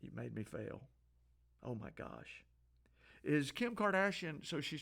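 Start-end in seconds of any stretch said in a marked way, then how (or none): 0.0-2.4 mocking whine. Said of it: "You're just asking".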